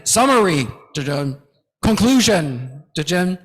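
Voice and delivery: flat mock transition. Shown as a demonstration. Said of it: "low impact".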